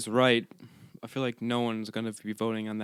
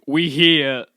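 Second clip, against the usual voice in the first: lightly voiced offhand train announcement; a hint of a bored conductor on the PA; lazy conductor voice; 3 semitones higher, 10 dB louder than usual. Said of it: "It was like".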